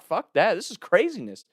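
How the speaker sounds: high, loud panicked outburst; freaked out. Retold or imitated. Running from gunfire, high and panicked. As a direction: blurt it while sprinting away. Fleeing a shotgun.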